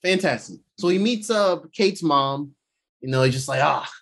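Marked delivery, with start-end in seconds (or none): 3.6-3.9 a lightly voiced, measured crime boss greeting; Wilson Fisk voice. Imitating the Kingpin greeting Kate's mom, lightly voiced. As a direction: ease into it like a calm villain. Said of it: "That's how he talks".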